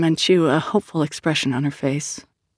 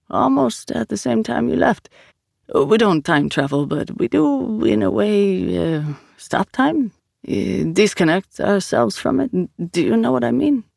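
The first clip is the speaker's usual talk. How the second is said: higher, lilting character voice with lingering words; Vito, patient explainer; 5 semitones higher than usual. Acted. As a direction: explain slowly, searching for the phrase.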